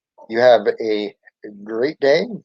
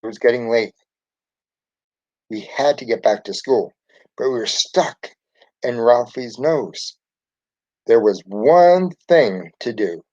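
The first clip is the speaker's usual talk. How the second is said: lively read-aloud for children, lightly voicing the characters; storybook reading voice. A narrator's reading. Teacher reading a Magic School Bus story to her class, storytelling voice. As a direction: read it like a teacher sharing a picture book with the class. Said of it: "Hopefully you enjoyed my reading voice".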